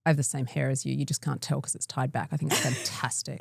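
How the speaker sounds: low, deadpan pharmacy clerk; soft, understated monotone impression; unchanging affect. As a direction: pay a compliment with no change of expression. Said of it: "she didn't change her affect at all".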